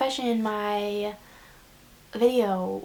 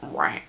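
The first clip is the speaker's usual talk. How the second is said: car stuck in pit. Retold or imitated. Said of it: "it's just like the car is just like".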